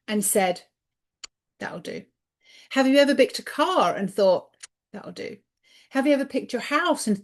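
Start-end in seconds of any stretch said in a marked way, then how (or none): 1.6-2.0 quiet, resigned "That'll do"; resigned mutter. Retold or imitated. A shrugging "That'll do" to yourself, said softly. 4.9-5.4 quiet, resigned "That'll do"; resigned mutter. Retold or imitated. A shrugging "That'll do" to yourself, said softly.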